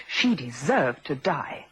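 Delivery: slow, emphatic condemnation; slow, measured damning statement; deliberate verdict. Acted. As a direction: land each word slowly and hard. Suspect repeats damning verdict.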